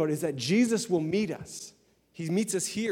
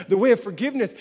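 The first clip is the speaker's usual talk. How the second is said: "the way of forgiveness" higher, through a hurt; pained repeat; 7 semitones higher, 8 dB louder, faster than usual. Shown as a demonstration. Preacher voicing a hurting believer, strained. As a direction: push out "the way of forgiveness" despite the sting. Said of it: "oh, that hurts".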